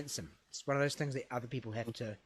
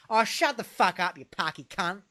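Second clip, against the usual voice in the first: higher, louder punchline put-down; acted irritated outburst; 6 semitones higher, 5 dB louder than usual. Friend shutting down a boasting mate, mock angry. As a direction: cut the boaster off with acted scorn.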